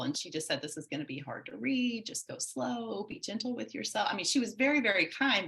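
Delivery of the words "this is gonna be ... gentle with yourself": gentle counselor. Retold or imitated. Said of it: "so kind and so gentle".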